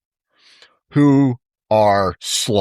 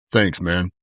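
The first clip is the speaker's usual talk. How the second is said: lower, lightly voiced deep thanks of a tall athlete; deep Scottie Pippen voice; 4 semitones lower than usual. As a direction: drop low for a casual, understated thanks. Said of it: "in his deep Scottie Pippen voice".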